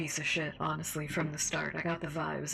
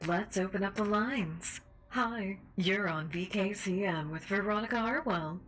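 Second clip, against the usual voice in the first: radio host voice; 3 semitones higher than usual. Acted. Host character continues.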